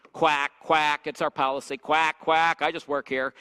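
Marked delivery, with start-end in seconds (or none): 0.1-1.1 duck quacks. Retold or imitated. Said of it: "talk about it as a duck pond". 1.8-2.6 duck quacks. Retold or imitated. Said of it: "talk about it as a duck pond".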